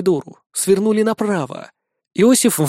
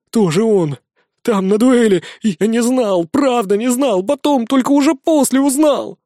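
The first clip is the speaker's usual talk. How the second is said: rising, louder frantic pleading; frantic excuses; 6 semitones higher, 3 dB louder than usual. Acted. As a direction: blurt out excuses in panic. Frantic confession.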